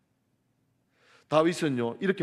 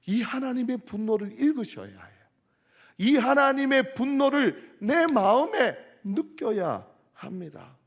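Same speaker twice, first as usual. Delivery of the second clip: building up to a higher, louder plea; preaching at full force; 10 semitones higher, 7 dB louder than usual. Acted. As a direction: drive it home to the congregation. Preaching climax on God's anger.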